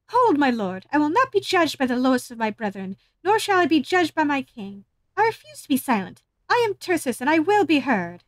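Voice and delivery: loud, commanding goddess declaiming; loud rebuke of the king of the gods; thundering defiance. Acted. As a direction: stand tall and proclaim it, every word ringing. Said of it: "your thundering talent roll forth".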